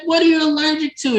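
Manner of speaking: high, quick imitated questioning; concerned admirer. Tabitha questioning sneezing Clay, high and concerned.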